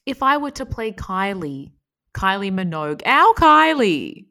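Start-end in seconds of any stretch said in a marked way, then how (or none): 3.1-4.2 loud, high, stretched-out cry; proud fan cry. Acted. Actor showing how they'd play a pop singer, proud cry. Playing the singer, our-singer call.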